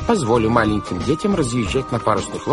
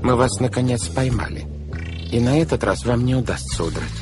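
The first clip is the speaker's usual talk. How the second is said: stern denunciation; 4 semitones higher than usual. Acted. Banker sternly denouncing the villain.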